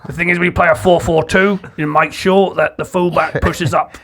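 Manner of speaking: a light, gravelly-leaning manager voice; Sean Dyche impression. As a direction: talk tactics like a gruff Premier League boss. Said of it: "you wanna do it more like that, Sean Dyche".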